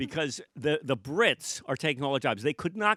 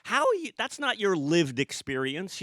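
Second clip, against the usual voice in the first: indignant; 5 semitones higher than usual. Retold or imitated. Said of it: "And I'm like".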